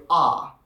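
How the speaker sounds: "ah" with the R dropped, open vowel; standard English ah. Shown as a demonstration. Teaching the dropped R of standard English, open ah. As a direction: say "ah" not R, British style. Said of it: "in standard English, you would say".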